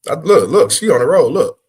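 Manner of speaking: loud, high excited call. Real, not acted. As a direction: shout it out, thrilled by what you see. Excited reacting to clip.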